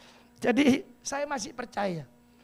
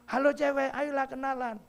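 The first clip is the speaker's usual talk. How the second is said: high coaxing flirt call; coaxing catcall; 5 semitones higher than usual.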